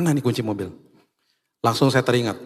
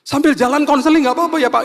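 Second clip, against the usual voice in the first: higher, louder imitated weepy plea; crying driver; 14 semitones higher, 5 dB louder than usual. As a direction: mimic a driver breaking down while asking for help. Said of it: "Terus dia tiba-tiba nangis". (sopir menangis minta konseling, suara tinggi)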